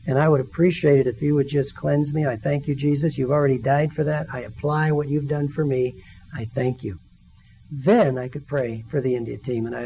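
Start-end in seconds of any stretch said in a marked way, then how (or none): 0.4-7.0 quiet prayer. Retold or imitated.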